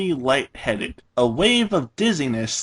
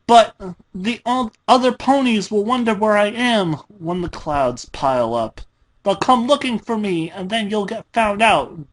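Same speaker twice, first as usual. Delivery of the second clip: in desperation; 7 semitones higher than usual. A narrator's reading. Dash warns Pinky she will be found, desperate. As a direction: plead for rescue in a rush. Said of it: "Dash cried in desperation".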